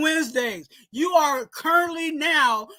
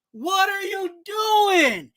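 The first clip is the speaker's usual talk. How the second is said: exasperated shout; 5 semitones higher, slower than usual. Real, not acted. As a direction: demand an answer from the player. Ranting at the quarterback.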